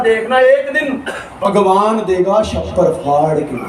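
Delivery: a hint of a grand, slow promise; hammed-up reassurance with a laugh; husband promising his wife, lightly grand; mock grand promise. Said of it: "कहता".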